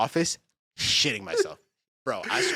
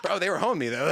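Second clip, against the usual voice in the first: laughing through a lame excuse, a bit higher; 5 semitones higher than usual. Retold or imitated. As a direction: giggle out the excuse about lag. Laughing retelling his excuse.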